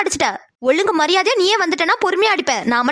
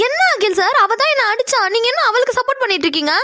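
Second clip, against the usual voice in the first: high indignant protest; 6 semitones higher than usual. Acted. Angry girl protesting to Akil, high outraged voice. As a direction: pitch shoots up in outrage.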